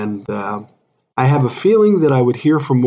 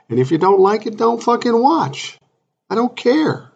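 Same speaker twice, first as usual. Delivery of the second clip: exasperated outburst; 10 semitones higher than usual. Real, not acted. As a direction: throw it at the critics, fed up. Angry rant at TikTok critics.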